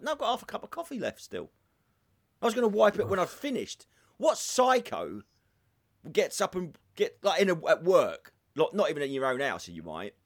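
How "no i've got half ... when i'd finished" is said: mock protest. Retold row over a coffee cup.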